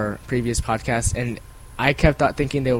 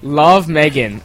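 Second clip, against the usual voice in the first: slow, loud sign-off in a badly faked English accent; failing English accent; 6 dB louder, slower than usual. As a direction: let the attempted English accent fall apart. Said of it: "that kinda fell apart there at the end".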